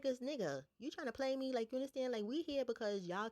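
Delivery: high, indignant retold challenge. Retold confrontation over the money.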